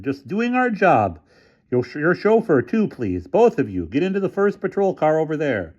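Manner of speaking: doubt every word he says; skeptical officer. A narrator's reading. Officer doubting the developer's story, high and suspicious. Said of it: "returned the policeman".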